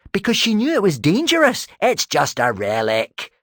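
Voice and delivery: high, loud defensive insistence; insisting. A narrator's reading. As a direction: push back loudly, defensively. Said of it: "he insisted".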